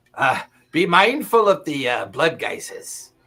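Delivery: loud stage whisper. Voicing a dwarf warning the party while they sprint: loud whisper. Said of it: "hear him kind of whisper loudly".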